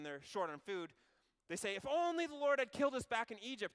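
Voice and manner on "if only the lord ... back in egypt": higher, louder whiny moan. Acted. Israelites moaning to the Lord about food, whiny moan. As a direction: moan it like a sulking crowd. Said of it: "they moaned".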